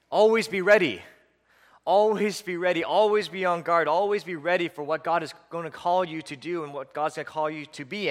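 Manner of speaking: preacher sounding an urgent alert; urgent exhortation. Acted. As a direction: drive each repeated phrase home with urgency. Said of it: "can you hear the urgency in his voice".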